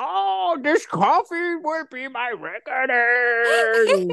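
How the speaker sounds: high, very slow cartoon villain voice; hammed-up mock accent, every word stretched; Bane. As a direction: declaim it grandly in a strained, silly villain voice. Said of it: "you are doing specifically Bane from that show".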